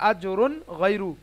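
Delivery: আজরুন গয়রু with a clear "n", no nasal hum; clear izhar. Shown as a demonstration. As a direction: join আজরুন to গয়রু promptly and distinctly. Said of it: "তাড়াতাড়ি স্পষ্ট করে পড়তে হবে".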